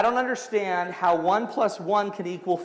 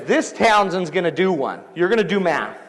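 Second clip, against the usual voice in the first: loud, emphatic mock scolding; retold teacher's firm order, punched out; stern teacher; 6 dB louder than usual. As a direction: lay down the law like a teacher. Teacher scolds while poking him.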